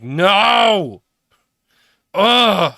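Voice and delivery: loud, high mock yell; hammed-up outburst of refusal; body's protest yell. The body refusing to exercise, mock protest yell. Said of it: "the body's like".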